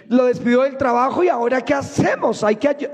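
a comically panicked God giving orders; flustered God. Acted. God frets to Gabriel, high and rushing, then shouts.

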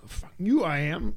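Jack Nicholson's bad Boston accent, snapped back; a Boston accent, barely put on. Director tells Jack he's wrong, bad Boston accent. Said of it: "I'm doing the bad accent".

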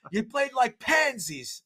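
high, slow mocking coach rebuke; coach scolding. Coach scolding his team after the loss, high mocking rebuke. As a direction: sneer it at the team like a scornful coach. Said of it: "and goes".

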